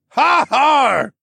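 loud, high har; chorused cheer. Acted. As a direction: cheer together. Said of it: "all of us chorused".

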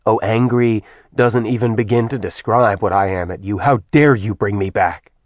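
bitter. Acted. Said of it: "He'd laughed bitterly".

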